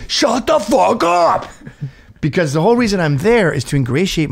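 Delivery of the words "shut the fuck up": slow, high, drawn-out mock retort; a host swallowing his fury at shrieking guests; suppressed mock outburst. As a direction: say it slowly, as the thing you can't say. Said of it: "I can't say".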